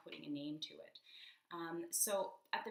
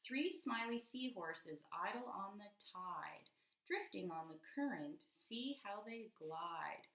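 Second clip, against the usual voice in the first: slow reread, listening for rhyme; 2 semitones higher, slower than usual. Shown as a demonstration. Rereading to a child, slow, drawing the rhyme out. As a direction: reread even slower, leaning on each word. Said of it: "Let me hear again".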